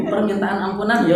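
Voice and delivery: repeating "Permintaan ampunan" through laughter; amused repeat; laughing. Retold or imitated. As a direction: say it while laughing.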